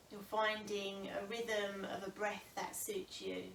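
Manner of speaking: calm, unhurried breathing guidance with long pauses; yoga teacher settling a class into the breath; guided meditation. Real, not acted. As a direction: ease them gently into stillness, phrase by phrase. Leads seated breathing meditation.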